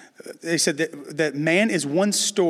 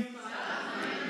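whispered; 15 dB quieter, slower than usual. Pretend. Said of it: "Somebody say".

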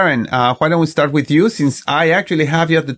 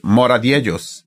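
Spanish accent; 2 semitones lower than usual. Shown as a demonstration. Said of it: "with the Spanish accent".

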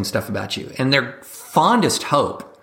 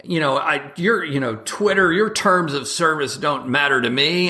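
puffed-up high tough-guy boast; mock tough guy; 4 semitones higher than usual. Mocking right-wing pundits, a puffed-up tough-guy brag. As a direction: brag like a swaggering strongman. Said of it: "it's like".

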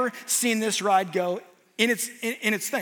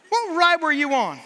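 laughing; 6 semitones higher, 3 dB louder than usual. Real, not acted. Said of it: "laughing at the punchline".

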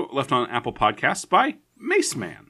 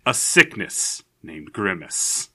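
movie trailer voice; 2 semitones lower, slower than usual. Pretend. Mock movie trailer narration.

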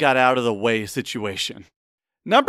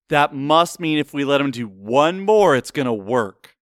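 studio executive. Acted. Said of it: "I'm gonna do my best studio executive impression".

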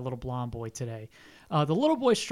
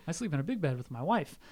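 softer, quick overacted boast; a hint of a ham actor; hammy stage actor; 6 dB quieter, faster than usual. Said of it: "doing some serious overacting".

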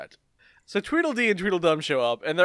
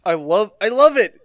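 gleeful; 3 semitones higher, 9 dB louder than usual. Retold or imitated. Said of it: "Koichi's like".

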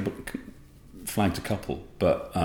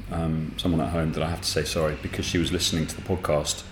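eating while talking; mouth full; 3 semitones lower, 3 dB quieter, faster than usual. Real, not acted. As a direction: talk through a mouthful. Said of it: "you're eating Easter eggs".

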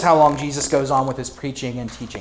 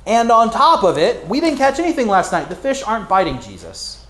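exasperated protest. Acted. Tired fisherman protesting to Jesus, exasperated and rising. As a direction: push back at the boss, more and more incredulous. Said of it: "He's like".

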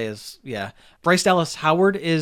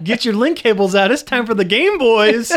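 loud, raised, hammed-up segment hype; hype announcer; 7 semitones higher, 6 dB louder than usual. Co-host calling players to the Game Boys segment, hammed-up hype. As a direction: call out the catchphrase like an announcer.

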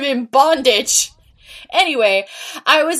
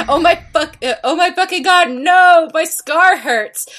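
scream; 6 semitones higher, 4 dB louder than usual. A narrator's reading. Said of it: "He started to scream".

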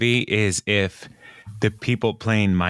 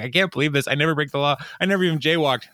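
mock indignant protest; 6 semitones higher, much faster than usual. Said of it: "he's like".

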